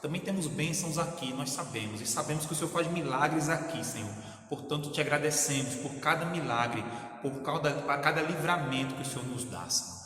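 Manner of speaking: fervent pastor's prayer, swelling on each Pai; closing prayer. Acted. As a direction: pray for the sick and grieving, rising with feeling. (oração fervorosa de pastor)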